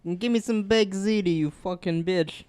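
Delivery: slow hammed-up Italian accent. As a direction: drag it out in bad Italian. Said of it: "the worst accents I've ever heard".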